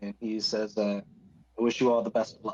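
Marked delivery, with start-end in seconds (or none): 1.6-2.5 whispering in a character voice. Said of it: "he's whispering anyway".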